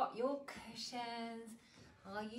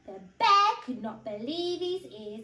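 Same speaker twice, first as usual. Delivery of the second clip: put-on animated read-aloud for small children; story narration; 3 semitones higher, 10 dB louder than usual. A narrator's reading. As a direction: tell it clearly and expressively to little ones.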